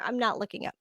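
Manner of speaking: breathy half-whispered admission; whispered aside. Real, not acted. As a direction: drop it to a whisper, like a confession. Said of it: "quiet aside".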